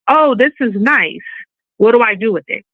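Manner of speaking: lightly acted musing over a picture; mock casual admiration. Acting out a follower viewing posts.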